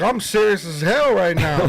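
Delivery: prank voice. Retold or imitated. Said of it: "And I was like".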